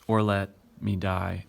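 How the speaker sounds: "or let / me die" with a break after "let"; two metrical feet. Shown as a demonstration. Teacher showing there are only two, "or let / me die" split in half. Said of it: "There's only two".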